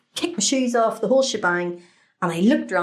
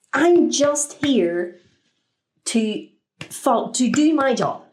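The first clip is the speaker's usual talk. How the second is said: exasperated security worker; 3 semitones higher, slower than usual. Acted. Acting put-upon security worker replying.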